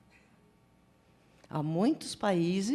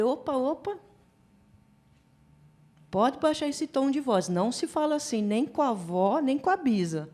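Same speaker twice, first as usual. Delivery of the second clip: higher-pitched gentle telling-off; mild retold scolding; 5 semitones higher than usual. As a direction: correct a small child firmly without shouting. Tia repreende sobrinho de três anos. (bronca leve, reencenada)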